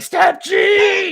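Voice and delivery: high, full-throated yell; screaming command. Retold or imitated. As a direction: scream the order at a stubborn horse. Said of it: "And I start screaming".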